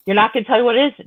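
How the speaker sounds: high-pitched child imitation; persistent little boy. Son keeps asking mom about toy, persistent child voice. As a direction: pester as a disbelieving son.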